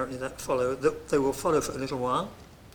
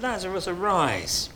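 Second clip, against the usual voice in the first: commanding call; 4 semitones higher, 4 dB louder than usual. Acted. Jesus calls Lazarus from grave.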